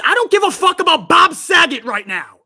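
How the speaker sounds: real frustrated yell at the chat; angry shout. Real, not acted. Ranting at chat.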